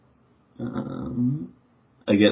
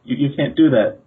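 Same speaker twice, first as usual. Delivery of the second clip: stammered, higher-pitched objection; acted, halting plea; anxious protest; 6 semitones higher, 3 dB louder than usual. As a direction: protest in a small panic. Character protests the bush bashing.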